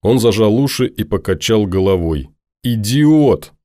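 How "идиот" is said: hammed-up furious shout; furious girl. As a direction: spit it out in a rage. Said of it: "подпрыгнула от ярости".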